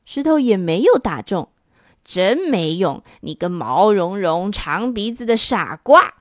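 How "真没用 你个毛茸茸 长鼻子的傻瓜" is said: a touch of glee in a mild jeer; gleeful shout. Acted. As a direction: crow happily over the miss. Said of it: "东边的怪物开心地叫着".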